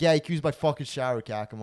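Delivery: loud imitation of an irritated friend; pissed. Friend grudgingly allowing a shower, mock pissed off. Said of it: "She's pissed".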